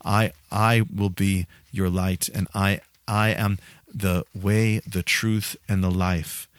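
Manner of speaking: preacher quoting Jesus to the congregation, slow and low; voicing Jesus. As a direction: let each promise land slowly. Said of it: "he's the one who says".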